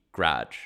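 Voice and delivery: low one-syllable "garage", GRAHJ; Midwest pronunciation. Shown as a demonstration. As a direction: run g straight into r in "garage". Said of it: "take the A out".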